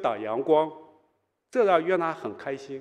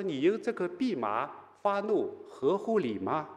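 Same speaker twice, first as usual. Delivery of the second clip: gentle questioning; 3 semitones higher, 6 dB quieter than usual. Acted. God gently questioning Jonah instead of rebuking him, gentle. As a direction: ask it gently, without reproach. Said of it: "而是继续温柔地，啊，来询问他".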